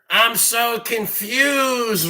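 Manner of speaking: mocking drawl. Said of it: "rant for, like, an hour".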